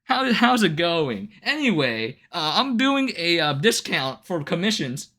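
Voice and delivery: mock commission spammer. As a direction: ham up the sleazy sales pitch disguised as small talk. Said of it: "Be like".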